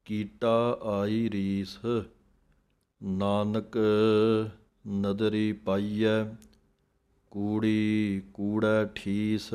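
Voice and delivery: slow, measured chant of scripture, each word drawn out; slow Gurbani recitation. Shown as a demonstration. Teacher recites the verse for students, slow chant.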